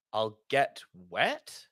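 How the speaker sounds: slow, low, laughing rise; lightly voiced naive confusion; baffled question. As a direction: ask it slowly, totally puzzled. Posh teller baffled by threat.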